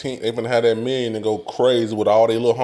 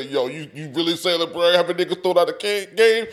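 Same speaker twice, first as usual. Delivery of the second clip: imitated Cam; 6 semitones higher than usual. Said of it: "The nigga Cam say".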